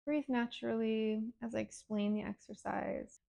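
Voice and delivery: calm breathing-exercise guidance with long pauses; guided meditation. Real, not acted. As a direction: gently lead them through the exercise. Leads breathing and emotion exercise.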